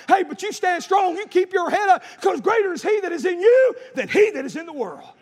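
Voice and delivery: building, driving sermon cadence; rousing preaching. Acted. Preacher rallying children of God to stand strong, rousing preaching. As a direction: build steadily to a ringing exhortation.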